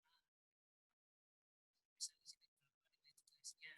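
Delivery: faint, cutting-out call audio; bad connection. Real, not acted. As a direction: voice fading in and out. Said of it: "Tadi kurang jelas".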